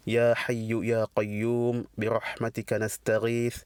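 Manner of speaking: even, measured Arabic invocation; lecturer's formulaic opening prayer in Arabic. Acted. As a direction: recite a formal opening supplication on a level tone. Recites the opening praise and supplication.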